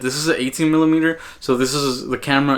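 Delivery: closer, fuller audio from a small mic on the camera; camera-mounted shotgun mic. Shown as a demonstration. Filmmaker compares the Rode Micro on the camera, fuller and closer. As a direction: sound clearer, like a mic on the camera at arm's length. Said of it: "how the audio sounds when you have the Rode Micro attached".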